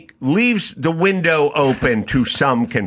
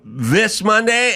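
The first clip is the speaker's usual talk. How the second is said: high incredulous query; 7 semitones higher, slower than usual. Retold or imitated. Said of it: "And I'll go".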